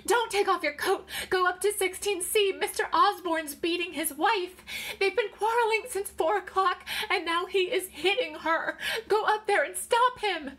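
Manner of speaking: loud, high-pitched, urgent pleading; frantic scream. A narrator's reading. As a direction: scream for help in a panic. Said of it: "she screamed".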